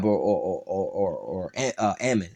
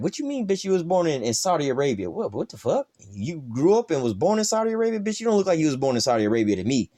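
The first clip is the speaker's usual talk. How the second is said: high-pitched incredulous retelling of a schoolmate challenge; mock disbelief; 5 semitones higher than usual. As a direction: act out stunned disbelief, pitch jumping up.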